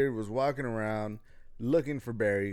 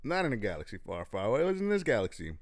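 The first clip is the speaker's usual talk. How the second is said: storyteller voice. Acted. Story narration opening.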